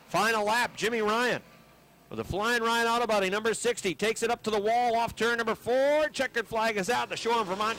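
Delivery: rising excitement on the final lap; excited. Real, not acted. Final lap, leader takes flag.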